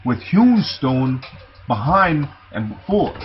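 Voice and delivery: measured, declaimed Bible reading; scripture reading. Acted. Preacher reading the account of Jonathan's death, scripture reading. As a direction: read the verse out to the congregation.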